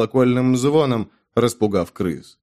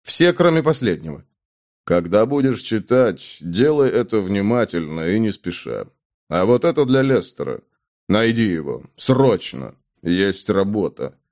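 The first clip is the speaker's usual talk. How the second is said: low steady instructions; 3 semitones lower than usual. Acted. Hero instructs innkeeper.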